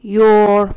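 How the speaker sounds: fuse you and are into "Your"; contracted you're. Shown as a demonstration. Teacher showing the joined form, one-syllable "Your". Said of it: "you are رو من اینجا به هم".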